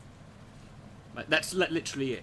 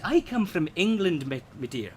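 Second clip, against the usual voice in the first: Mrs Doubtfire impression; 2 semitones higher than usual. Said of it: "Missus Doubtfire said".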